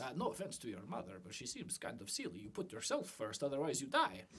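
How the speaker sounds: put-on accented merchant puzzling over a customer; a foreign shopkeeper lecturing in broken English; lightly accented shopkeeper, baffled; shopkeeper's strong accent. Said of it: "My accent is very strong".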